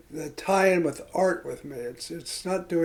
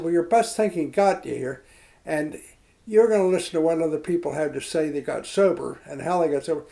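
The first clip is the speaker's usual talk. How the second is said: raised, insistent retold scolding; imitating the sponsor's blunt rebuke, louder; blunt from the heart; 3 semitones higher, 6 dB louder than usual. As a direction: lay down the law to the newcomer. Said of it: "blunt from the heart".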